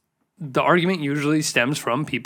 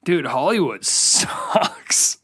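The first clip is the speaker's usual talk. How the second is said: whispered laugh; much slower than usual. Real, not acted.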